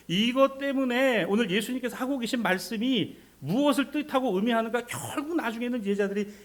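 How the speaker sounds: impassioned preaching. Acted. Preacher citing the disciples' request to Jesus, impassioned. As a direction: drive it forward in a high preaching voice.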